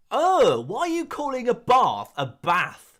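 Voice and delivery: loud, high indignant complaint; mock outrage. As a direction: play an appalled visitor complaining. Acts out an outraged visitor.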